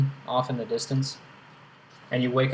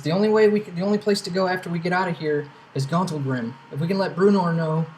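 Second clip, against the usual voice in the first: Eldith voice; 3 semitones higher, faster than usual. Acted. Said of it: "Eldith walks up and says".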